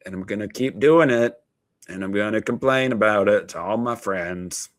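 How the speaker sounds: mock country singer complaining; country twang. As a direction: croon it like a whiny country ballad. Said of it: "Got a little country there".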